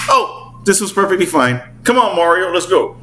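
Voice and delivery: high-pitched little creature voice; Toad. Retold or imitated. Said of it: "the guy that plays Toad".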